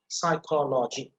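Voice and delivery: psychology drawn out slowly; psychology, slow and spaced; slow syllable-by-syllable. Shown as a demonstration. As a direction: sound out each syllable slowly. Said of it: "Pronounce it".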